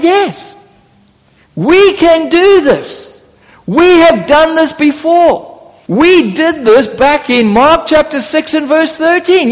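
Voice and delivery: eager disciples promising a cure; confident disciples. Retold or imitated. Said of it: "And they probably said".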